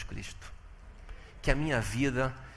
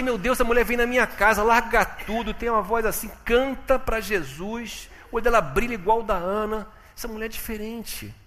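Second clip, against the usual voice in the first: loud, high marvelling at the woman; amazed inner thought; 9 semitones higher, 7 dB louder than usual. Retold or imitated. Man recalling his wonder at the singing woman, amazed. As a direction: sound struck with wonder.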